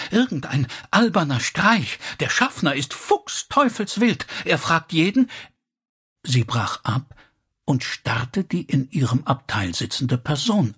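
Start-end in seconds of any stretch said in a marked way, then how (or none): 0.1-5.3 high, excited news-bringing; breathless excitement. A narrator's reading. Elsie comes back with news of the smoke bomb, breathlessly excited. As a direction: blurt out the news, high and agitated. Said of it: "sagte sie atemlos".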